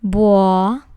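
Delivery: "Buo-na-se-ra" split into four loud syllables. Shown as a demonstration. Teacher splits buonasera into syllables, loud and separated. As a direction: chop the word into its four syllables. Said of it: "This word has four syllables".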